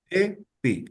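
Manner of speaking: "E, pi" in two syllables, E then clear I. Shown as a demonstration. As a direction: repeat "E, pi" as a split model. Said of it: "solamente cambia la primera vocal".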